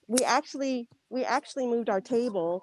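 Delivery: muffled by a face mask; through a face mask. Real, not acted. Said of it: "I don't know if you guys can hear me with my mask".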